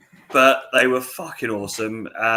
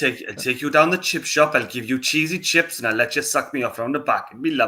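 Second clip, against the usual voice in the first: put-on Welsh accent; chatty, mock Welsh accent; 3 semitones higher, 3 dB louder than usual. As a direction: play a big Welsh fella. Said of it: "Lacey's accent is better than yours".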